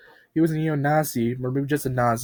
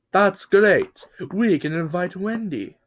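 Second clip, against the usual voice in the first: high, bright cheer; eager cheer; 7 semitones higher, slower than usual. Acted. Bulldozer cheers about inviting Wendy, high and eager. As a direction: jump in with glee.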